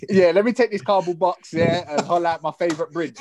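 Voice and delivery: laughing through a dark joke. Retold or imitated. Joking about a sad fate.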